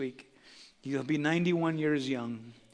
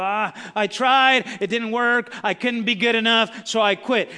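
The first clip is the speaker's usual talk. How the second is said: weary quitter; 7 semitones higher, 8 dB louder than usual. Retold or imitated. Quitters quoted mid-sermon.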